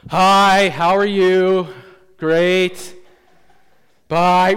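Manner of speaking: loud, brisk mock-friendly hello and goodbye; fake cheery greeting. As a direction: rush through it to tick a box. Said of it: "we kind of have that attitude and we're like".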